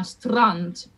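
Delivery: strand with a quick flip of the tongue on the r; strand, tapped r; rolled R. Shown as a demonstration. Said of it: "we might wanna roll the R".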